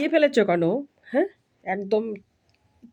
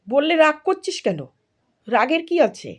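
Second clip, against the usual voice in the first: exasperated scolding; 7 semitones higher than usual. Real, not acted. Mother scolding sulking daughter.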